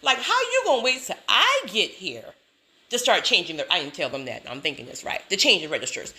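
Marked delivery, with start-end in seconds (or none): 0.0-3.7 mock-indignant inner complaint, pitched up; in her feelings. Customer silently fuming at changing registers, mock-indignant. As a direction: replay your annoyed thought with sass. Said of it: "I was in my feelings".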